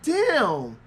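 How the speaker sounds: hammed-up crying shout, very high; overdone sobbing yell at the screen; mock anguished wail. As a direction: wail it like a heartbroken fan. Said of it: "And I'm like".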